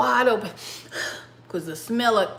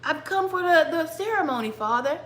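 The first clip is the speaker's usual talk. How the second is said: slightly raised, mild character voice; Esau's manner of talking; 5 semitones higher, 4 dB quieter than usual. Acted. Son asks his father for the ceremony, lightly voiced character. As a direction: lightly voice a formal-speaking son. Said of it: "That's how he really talked".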